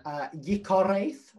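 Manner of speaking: "yikareth" said slowly with a trilled r; rolled r. Real, not acted. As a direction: roll the r in "yikareth". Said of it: "I'm rolling my R's".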